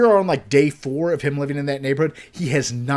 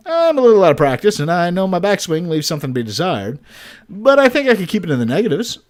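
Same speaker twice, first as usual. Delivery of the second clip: excited; 2 semitones higher, 4 dB louder, faster than usual. Acted. Dad hyped for mini golf.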